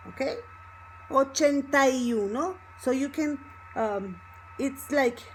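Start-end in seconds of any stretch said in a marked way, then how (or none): 1.1-2.6 "Ochenta y uno" with stressed "tai" before "uno"; Y joined to A. Shown as a demonstration. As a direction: run "Ochenta y" together as one word. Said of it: "becomes together with the A".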